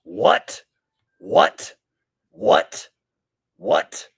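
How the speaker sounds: high, loud parroted outburst; mock disbelief. Host parrots the clip's repeated what, high mock disbelief. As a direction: mimic an incredulous yelp.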